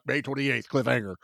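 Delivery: hushed mock promo read; imitated trailer announcer. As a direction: drop down like a movie-trailer voice-over. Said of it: "That's the only dialogue in every T V spot".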